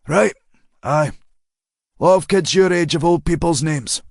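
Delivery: a hint of a breezy older man; easy chitchat, nudging along; lightly voiced chatty driver. A narrator's reading. Driver chatting to the girl he picked up, lightly voiced.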